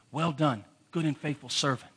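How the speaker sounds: a soft, lifeless "Well done"; flat, dull reading. Shown as a demonstration. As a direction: read it quietly with no feeling at all. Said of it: "I used to say that like this".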